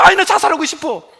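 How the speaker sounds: mock whining 아이, 나 자살하고 싶어 with a falling sigh on 아이; whiny complaint. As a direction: imitate someone moaning over a small hardship. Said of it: "조금만 힘들어".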